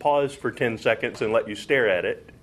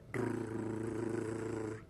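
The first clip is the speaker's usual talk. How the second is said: soft rolled-r drum roll; 3 semitones lower, 14 dB quieter than usual. Shown as a demonstration. Teacher imitating a drum roll before the crash, soft rolled r. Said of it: "after a really good drum roll".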